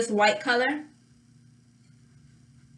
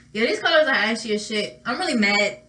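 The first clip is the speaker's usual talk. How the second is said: mock complaint broken by real laughter; laughing. Real, not acted. Griping to viewers about ashy shadow, laughing. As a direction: laugh through the gripe.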